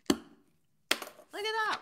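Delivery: slow, loud, high delight; excited. Real, not acted. Host delighted at the winner to viewers, high and loud. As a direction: savour it with real glee.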